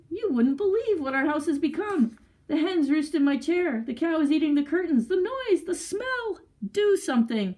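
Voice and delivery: high, frantic string of complaints; distraught cry. A narrator's reading. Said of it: "cried the husband".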